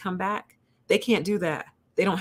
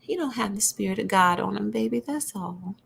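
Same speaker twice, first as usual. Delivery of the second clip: grandma voice; 3 semitones higher than usual. Retold or imitated. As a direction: coo it like a gentle granny. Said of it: "When I do the granny voice".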